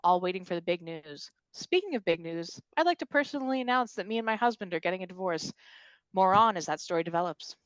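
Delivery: lightly voiced TV news report; news reporter. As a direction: read it like a live news anchor. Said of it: "News reporter".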